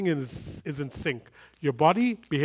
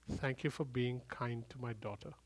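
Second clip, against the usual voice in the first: much softer, almost breathed repeat; hushed repeat; 3 semitones lower, 11 dB quieter than usual. Retold or imitated. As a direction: let it fade to a near hush. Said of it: "He said".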